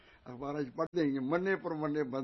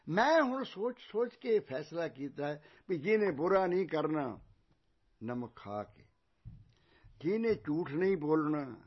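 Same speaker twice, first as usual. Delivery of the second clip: loud, emphatic verdict from a king; royal proclamation; 6 dB louder than usual. Acted. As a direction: announce the decision to the court. King announces his decision. (ਉੱਚੀ ਆਵਾਜ਼ 'ਚ ਸ਼ਾਹੀ ਫੈਸਲਾ)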